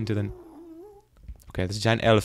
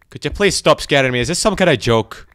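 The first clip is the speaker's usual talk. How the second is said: louder, rattled plea to stop; spooked protest; 3 semitones higher, 6 dB louder than usual. Real, not acted. Spooked player begging the game to stop scaring him, rattled protest. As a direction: protest loudly, freaked out.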